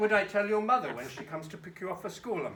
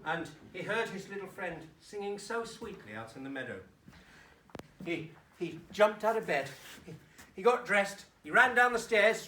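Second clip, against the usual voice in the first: put-on children's story narration. A narrator's reading. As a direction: tell it to children, building through the morning rush, then hushing.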